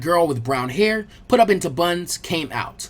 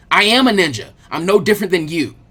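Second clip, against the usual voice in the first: louder, indignant retort; snapped; 6 dB louder than usual. Acted. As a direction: snap back at her, offended. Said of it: "Naruto snapped at her".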